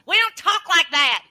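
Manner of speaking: loud, high-pitched mock Texas twang; hammed-up loud Texas accent; exaggerated Texas twang. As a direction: snap back indignantly in a put-on Texas accent. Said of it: "imitate a Texas accent".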